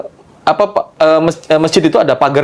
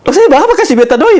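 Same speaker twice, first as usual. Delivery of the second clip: laughing through the words, high and louder; chuckling old man in an Ambon accent; laughing refusal; 13 semitones higher, 4 dB louder than usual. Retold or imitated. Old man laughing at the narrator's gift, laughing.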